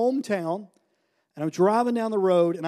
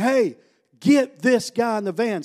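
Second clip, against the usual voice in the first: raised, urgent retold order; calling out; 4 semitones higher than usual. Leader to the other guys, calling out an order. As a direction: call the others in to help.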